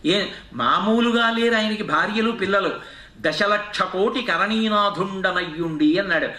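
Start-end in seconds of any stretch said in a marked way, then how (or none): 3.2-6.0 slow, sustained poem chant; verse recitation. Acted. Preacher reciting the elephant's prayer to God, slow recitation. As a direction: draw out the long compounds, ending on a held call.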